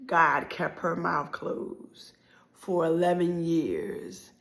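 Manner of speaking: hushed solemn line. Acted. Solemn climax of the story.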